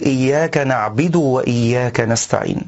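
"نعبد" as na'bid with an i on the ba; the rare "نعبد" said with a kasra; wrong na'bid in "نعبد". Shown as a demonstration. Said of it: "والصواب ضم الباء لا كسرها".

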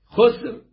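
خسر as "khusur"; damma on both letters. Shown as a demonstration. Reciter showing al-A'raj's variant reading, خسر as two u syllables. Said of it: "بضم الخاء والسين".

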